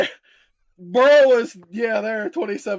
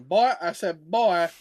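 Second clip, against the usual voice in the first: Foghorn Leghorn; 4 semitones lower, slower than usual. Retold or imitated. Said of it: "Foghorn Leghorn".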